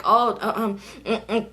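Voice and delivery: stammering through a nervous laugh; nervous laughing denial. Retold or imitated. Telling the worried girl she's fine, nervously laughing. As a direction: laugh it off and fumble for words.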